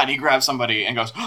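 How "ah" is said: character's wild yell. Acted. Game master voices Clixon grabbing someone.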